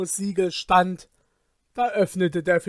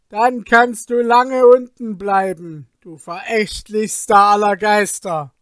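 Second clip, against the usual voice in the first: louder, firm angry refusal; angry fisherman; 3 semitones higher, 5 dB louder than usual. Acted. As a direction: scold the spirit with force.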